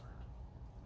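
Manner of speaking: real cough from an inhaled bug; hacking cough; coughing fit. Real, not acted. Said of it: "inhaled a bug".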